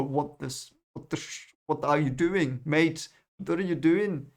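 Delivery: a hint of a cartoon duck, lightly voiced; half-hearted Scrooge voice on the angry question; Scrooge McDuck. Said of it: "the Scrooge McDuck".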